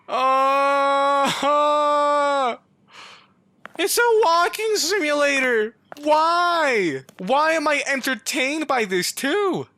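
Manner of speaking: high, loud laughing exclamations; amused disbelief. Real, not acted. Player laughing at the silly game, exclaiming. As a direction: laugh it out in amazement.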